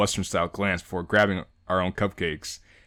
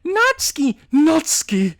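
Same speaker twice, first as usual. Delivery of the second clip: excited shout; 6 dB louder, slower than usual. Real, not acted. Excited calling out.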